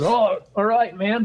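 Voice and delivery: a hint of Tom brushing it off; imitating Tom. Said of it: "he goes".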